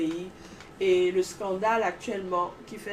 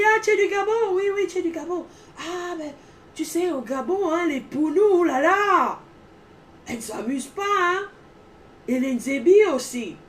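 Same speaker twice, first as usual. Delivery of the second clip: colleague voice; 9 semitones higher, 8 dB louder than usual. Retold or imitated. Colleague quoted in retold anecdote.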